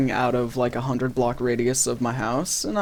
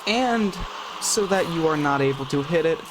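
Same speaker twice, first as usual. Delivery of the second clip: slow, hushed dramatic narrator; mock-solemn narration; 4 dB quieter than usual. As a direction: narrate your own downfall gravely, with long pauses. Mock-solemn narration of his death.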